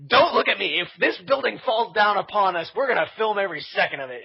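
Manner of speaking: rally a reluctant crew with bravado; defiant retold order. Retold defiant order to keep filming.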